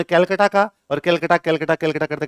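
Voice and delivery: कैलकटा with a flat "kel" and hard ʈ; anglicised कैलकटा, repeated in a run; English mispronunciation. Shown as a demonstration. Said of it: "अंग्रेजों से वो कोलकाता बोला नहीं गया".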